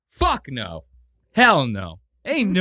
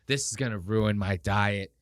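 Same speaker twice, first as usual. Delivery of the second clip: mock reluctant indulgence; 4 semitones lower than usual. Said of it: "I love when people do that".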